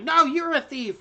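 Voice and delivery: high, loud little-creature retort; squirming kobold arguing; protesting kobold. Acted. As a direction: throw the accusation back, pitched high. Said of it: "the kobold's like".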